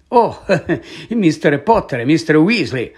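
lightly voiced awkward greeting; flustered professor. Professor greeting two unexpected pupils, flustered.

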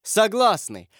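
high, quick cry of assent; exclaiming. A narrator's reading. Parents agree at once to save their son, exclaiming. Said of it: "воскликнули Меркандон и его жена".

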